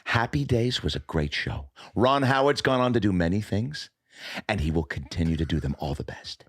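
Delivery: lightly voiced celebrity sign-off; stately goodbye in a put-on voice; Henry Winkler. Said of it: "the idea of a really mean Henry Winkler".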